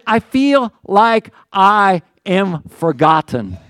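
very slow, drawn-out sorrow; forlorn lament. Acted. Pastor voices David feeling forgotten, very slow. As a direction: stretch it out, abandoned.

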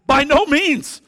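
loud, high, forceful no; ringing, emphatic refusal; emphatic denial. Retold or imitated. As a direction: shout it down with conviction. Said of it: "He answers it emphatically and immediately".

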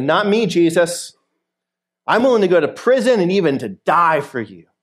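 earnest, lightly acted boast; emphatic, swelling protest; bold vow. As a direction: pledge loyalty with bravado. Voices Peter's bold vow to Jesus.

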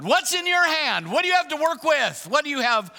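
high, pressing repeated question; emphatic preaching. Real, not acted. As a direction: press the question hard on the crowd.

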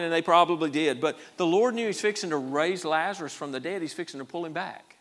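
usual speaking voice

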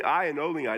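"I and only I", each "I" firmly marked; emphatic. Shown as a demonstration. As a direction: stress both words "I" in "I and only I". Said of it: "It's emphatic".

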